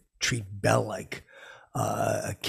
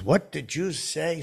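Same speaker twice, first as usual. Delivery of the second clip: slow, higher impression; stretched, raised-pitch celebrity imitation; Morgan Freeman; 6 semitones higher, 3 dB louder, slower than usual. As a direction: ask it drawn out, in disbelief. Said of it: "He goes".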